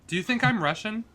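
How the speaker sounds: put-on Russian accent. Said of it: "I'm doing, like, a Russian accent".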